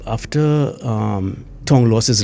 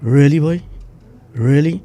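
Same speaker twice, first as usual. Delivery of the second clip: high, louder disbelief; incredulous; 5 semitones higher, 4 dB louder than usual. Real, not acted. Veteran officer telling the host, incredulous and raised.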